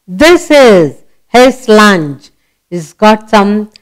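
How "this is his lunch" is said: slow, each word apart; slow reading aloud. Shown as a demonstration. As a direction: read it slowly for a child. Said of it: "Read here".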